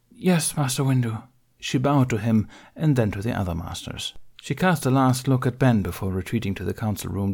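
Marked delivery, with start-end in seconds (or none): 0.1-1.2 Alara's voice. Acted. Alara obeying, chastened.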